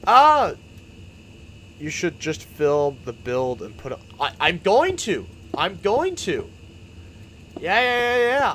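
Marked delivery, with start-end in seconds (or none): 0.0-0.5 sudden yelp. Real, not acted. Sudden outburst mid-stream. 4.2-6.5 excited. Real, not acted. Eager reply to chat suggestion. 7.6-8.5 excited. Real, not acted. Eager agreement with chat.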